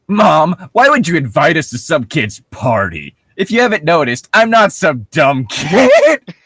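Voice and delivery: a hammed-up teen snapping at his mom; mock bratty teen.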